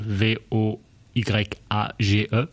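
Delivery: letters V O Y A G E one by one; spelling it out. Shown as a demonstration. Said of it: "It's spelled".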